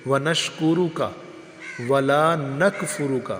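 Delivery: وَلَا نَكْفُرُكَ with a clear kaf, not نغفرک; careful recitation. Shown as a demonstration. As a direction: read each word distinctly. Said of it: "لفظوں کو دیکھ کے پڑھنا چاہیے".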